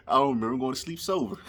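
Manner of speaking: quick giggly delivery, sober stressed; tickled by his own punchline; laughing punchline. Real, not acted. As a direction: laugh through it, leaning on sober.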